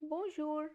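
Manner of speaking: "bonjour" spoken as a model word; French bonjour. Shown as a demonstration. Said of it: "the first word is".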